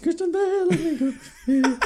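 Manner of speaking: high squeaky begging voice; squeaky mock plea. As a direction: plead like a whiny kid. Mocking Christian Bale plea.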